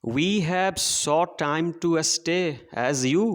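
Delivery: very slow, measured verse reading; poem recitation. Shown as a demonstration. Teacher reading poem to children, slow recitation. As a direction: read the line out word by word for the class.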